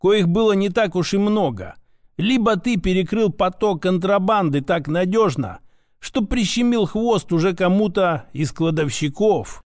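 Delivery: a hint of an insistent old mentor; lightly voiced grandfather, insistent. Grandfather explains who shot his grandson, lightly voiced, insistent. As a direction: reason it through as a grandfather, lightly in character.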